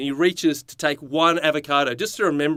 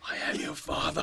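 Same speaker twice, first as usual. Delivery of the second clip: Darth Vader voice; 8 dB quieter than usual. Pretend. Star Wars line in scene.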